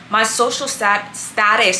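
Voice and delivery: careful words around retainers; slowing to talk past a retainer; wearing a retainer. Real, not acted. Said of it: "I can't talk with these retainers".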